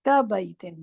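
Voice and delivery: كَبَيْتٍ as ka-bai-tin, stressing bait; teacher repeats كَبَيْتٍ with a clear bait; correct pronunciation. Shown as a demonstration. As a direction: say كَبَيْتٍ again with the house word bait clear. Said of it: "بیت کہتے ہیں گھر کو".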